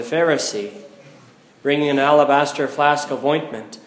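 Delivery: solemn liturgical reading; Gospel reading. Acted. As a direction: proclaim the Gospel at the lectern.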